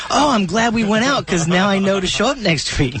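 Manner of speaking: imitated relief. Teasingly acts out friend's relieved remark.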